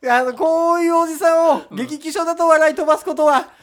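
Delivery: loud campaign speech voice; rally speech. Pretend. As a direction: orate like a candidate on a street corner. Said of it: "街頭演説始まってんだ。".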